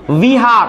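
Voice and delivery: विहार with clear v; v sound. Shown as a demonstration. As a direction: say विहार starting on a gentle v. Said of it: "व का उच्चारण है".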